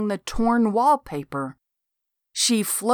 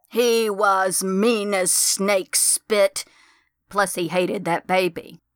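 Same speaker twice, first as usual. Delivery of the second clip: ghost voice. A narrator's reading. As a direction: let each word hang like a dead woman's voice. Ghost voice speaks.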